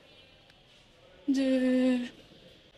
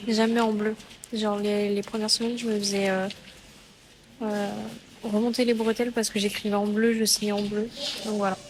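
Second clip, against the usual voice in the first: shouting over wind; 8 dB louder than usual. Real, not acted. Outdoors after exam, loud.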